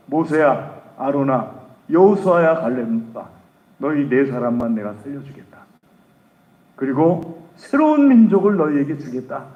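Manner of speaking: God in anger speaking to Moses; angry God. Acted. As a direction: announce judgment with authority. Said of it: "진노하셔가지고".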